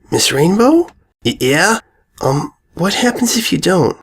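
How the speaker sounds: high, small worried question; timid filly voice. A narrator's reading. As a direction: ask it small and scared. Sweetie asks timidly.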